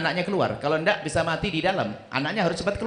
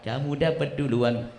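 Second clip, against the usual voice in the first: angel's reply; slower than usual. Acted. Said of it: "Malaikat jawab".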